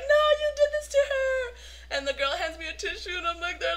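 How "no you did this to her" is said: high, loud comeback; mock indignation. Itty blames the star for the tears, high indignant cry. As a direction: throw the blame back in a high squeal.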